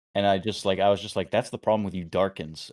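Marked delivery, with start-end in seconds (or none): 1.3-2.7 acted, venomous, spiteful delivery. Retelling own past line after getting solo killed: imitating a venomous tone. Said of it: "venom in my voice".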